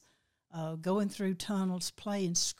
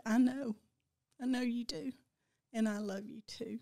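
tearing up; 3 semitones higher than usual. Real, not acted. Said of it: "you're still tearing up".

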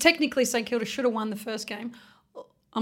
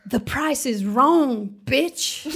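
movie quote; slower than usual. Retold or imitated. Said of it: "I'm gonna start saying that".

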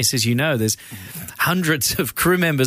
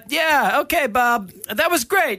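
calling out from the monitor; 11 semitones higher than usual. Retold or imitated. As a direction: shout notes to Bob from the monitor, breezy. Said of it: "directors will just call out from the monitor".

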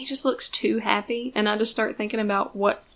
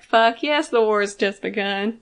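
gleeful grin; 4 dB louder than usual. Retold or imitated. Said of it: "that fucking shit-eating grin".

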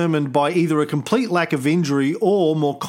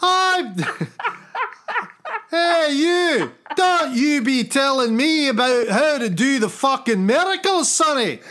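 put-on high, blustering, outraged Scottish accent; Scottish God; 7 semitones higher than usual. God telling Sonny off about miracles, outraged Scottish accent. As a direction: scold like an irate, hammed-up Scotsman. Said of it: "I don't know why God is Scottish".

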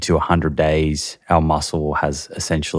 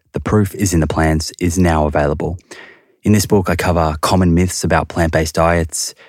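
upbeat, slightly louder promo read; 4 dB louder than usual. Acted. Host promoting his book mid-episode, upbeat ad read. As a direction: pitch the book like a podcast sponsor spot. Podcast ad intermission.

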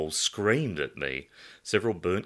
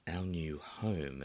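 mouthed; 6 dB quieter, slower than usual. Acted. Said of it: "I mouthed the words".

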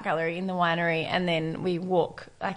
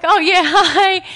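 slow, higher, louder hi broken by a laugh; awkward laughing hi; 10 semitones higher, 11 dB louder, much slower than usual. Retold or imitated. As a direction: laugh through an embarrassed greeting. Greeting stranger wrapped in blanket.

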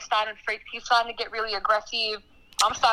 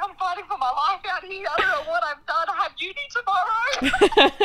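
higher-pitched, half-laughing mock panic; 6 semitones higher than usual. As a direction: retell a panicked plea, pitched up and amused. Acting out her panicked messages to friends.

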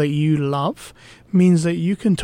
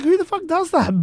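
high-pitched retold outrage; pissed off; 11 semitones higher than usual. Retelling how angry the date's walkout made her, high indignant outburst. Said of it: "I was pissed off. I was like".

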